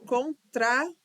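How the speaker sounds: "Contra" split as con-tra, second half lifted; syllable by syllable. Shown as a demonstration. Teacher showing where to separate, "Contra" syllable by syllable. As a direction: break "Contra" into two separate beats.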